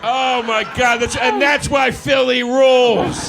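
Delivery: high, loud, slow cheer; excited shout. Real, not acted. Host cheering the prank as proof Philly rules. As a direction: proclaim it with delight.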